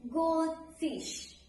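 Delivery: "goldfish" with GOLD held up, fish falling; stress on first noun. Shown as a demonstration. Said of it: "put the stress on the first noun".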